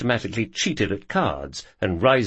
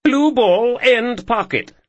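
much higher, louder put-on posh accent; fake posh voice; 7 dB louder, slower than usual. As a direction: call the shot in a hammy posh accent. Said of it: "Ethan, fake posh voice".

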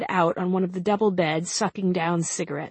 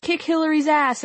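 shouting; 9 semitones higher than usual. Acted. Shouts from the crowd.

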